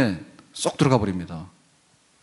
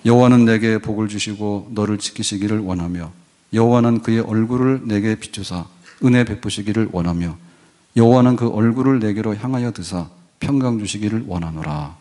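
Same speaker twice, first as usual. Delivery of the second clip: steady, solemn benediction read; formal benediction. Acted. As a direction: intone the blessing over the people. Pronounces the benediction. (엄숙한 축도 낭독)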